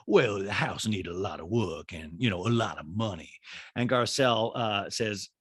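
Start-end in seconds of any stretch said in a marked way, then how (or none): 0.1-3.3 lightly voiced socialite, lower in pitch; a hint of a low mock hostess; Sutton. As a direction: imitate a guest's friend, pitched down. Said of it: "And Sutton's like".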